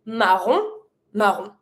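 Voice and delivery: marron said alike twice, nasal ending; French "marron" as ma-rohn; same for both. Shown as a demonstration. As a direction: say "marron" with a silent N both times. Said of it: "it's gonna be the same for both".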